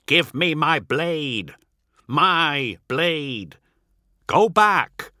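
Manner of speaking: high, forceful standoff shouting; shouted demand. A narrator's reading. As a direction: raise the voice in urgent demand.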